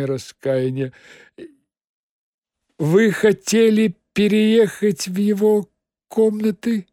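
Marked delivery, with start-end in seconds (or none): 2.8-6.9 nasal. Acted. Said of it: "как можно задушевнее прогнусавил".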